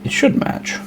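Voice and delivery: unvoiced whisper to herself. Real, not acted. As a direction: breathe it, barely voiced. Quiet check while painting.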